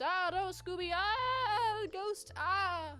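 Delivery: high, wailing mock panic for a cartoon ghost; panicked yelp. Shaggy sees a ghost and wails in high mock panic. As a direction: squeal it like a frightened cartoon coward.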